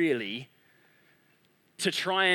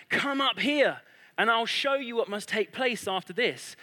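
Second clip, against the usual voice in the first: raised, commanding summons, lightly acted; mildly heralding, higher-pitched voice of Jesus; voice like a trumpet; 3 semitones higher than usual. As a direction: call out a summons from on high. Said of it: "his voice is like a trumpet".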